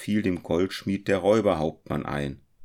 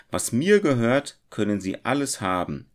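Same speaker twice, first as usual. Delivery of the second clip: smiling; 6 semitones higher, 4 dB louder than usual. A narrator's reading. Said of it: "erwiderte er lächelnd".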